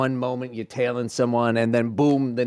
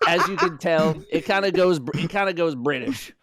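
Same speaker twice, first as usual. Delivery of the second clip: higher-pitched, badly faked Russian accent; shabby Russian accent; 5 semitones higher, 3 dB louder than usual. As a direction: attempt a Russian accent that slips toward British. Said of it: "what your best Russian accent is".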